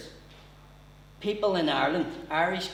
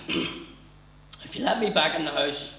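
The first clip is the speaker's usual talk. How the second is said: slow nervous plea; mock nervous; 2 semitones higher, slower than usual. Nervous dad bargaining with his wife, slow mock nerves. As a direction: gulp through the offer. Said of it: "He was gulping like mad".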